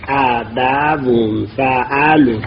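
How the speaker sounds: ابوون and فعلون slowly sounded out; two fathas. Shown as a demonstration. Teacher matching word to its pattern, ابوون and فعلون said slowly with two "a" vowels. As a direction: stretch ابوون syllable by syllable, "a-ba-wun", then فعلون to match.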